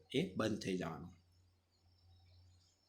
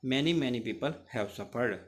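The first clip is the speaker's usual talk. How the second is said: slow, every word drawn out and pressed; stretching each word; 3 dB louder, much slower than usual. A narrator's reading. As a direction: lean on each word of "Many, many people have suffered". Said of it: "stretch his word".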